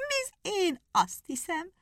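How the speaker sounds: high, slow, laughing hare. Acted. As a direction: laugh it out, very sure of himself. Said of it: "kacagott a nyúl".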